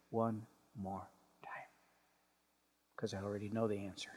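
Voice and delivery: soft breathy aside, trailing away; weary whisper. Real, not acted. Preacher confiding to congregation, tired whisper. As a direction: hush it like a tired confession.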